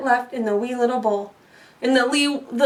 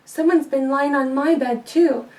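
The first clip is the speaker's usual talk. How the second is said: lightly voiced mama bear; a touch of hushed mother bear. Mama Bear sees her bed, lightly voiced.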